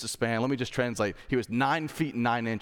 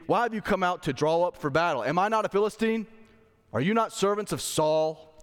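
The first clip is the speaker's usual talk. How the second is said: higher-pitched, challenging read of a taunt; Goliath's taunt, pitched up; 5 semitones higher than usual. Acted. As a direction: put them down with rising questions. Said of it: "He's putting them down".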